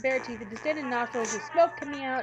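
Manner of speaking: animated read-aloud of a game scene; lively story narration. Acted. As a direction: narrate the fight like a gripping storybook. Reads the game text aloud.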